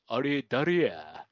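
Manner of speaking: slow, drawn-out mock Osaka question; hammed-up Osaka-style query; fake Osaka dialect. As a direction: imitate a drama man's bogus Osaka accent. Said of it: "大阪弁みたいなのがさ".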